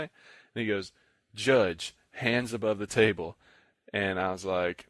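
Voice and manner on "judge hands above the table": louder imitation of calling the judge; mildly hostile callout.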